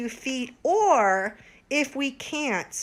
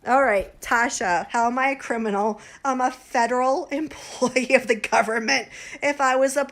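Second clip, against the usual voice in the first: indignant outburst; 6 dB louder than usual. Real, not acted. Defending against criminal accusation.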